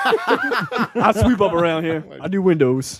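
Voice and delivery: slow, meek cleaning-man voice; humble servant voice. Retold or imitated. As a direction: play the lowly janitor, slowly. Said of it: "master voice".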